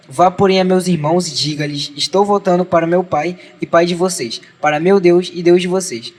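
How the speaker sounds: measured read-aloud Bible narration; even scripture-reading cadence with falling phrase ends. A narrator's reading.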